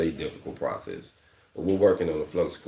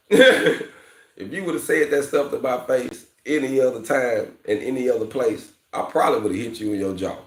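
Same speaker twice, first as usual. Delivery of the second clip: higher, louder scolding of a nephew; stern uncle warning; 8 semitones higher, 6 dB louder than usual. Retold or imitated. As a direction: warn the boy like a stern uncle. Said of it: "stuff you tell your nephew".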